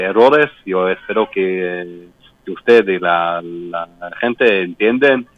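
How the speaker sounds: Spanish with a foreign accent; careful non-native Spanish; american accent spanish. Real, not acted. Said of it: "mi español no es perfecto".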